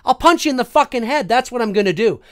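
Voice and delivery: loud, indignant retold threat; George Costanza. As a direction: threaten him with forceful, worked-up anger. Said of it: "it was like George Costanza Seinfeld".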